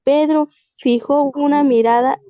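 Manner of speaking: measured dramatic reading with pauses between phrases; story reading. Acted. Student reading a tale to the class, measured dramatic reading. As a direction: read it aloud phrase by phrase, letting each hang.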